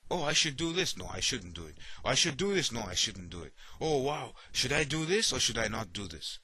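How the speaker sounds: mock indecisive back-and-forth; dithering inner voice. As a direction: act out a confused mind arguing with itself. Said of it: "you end up talking like this".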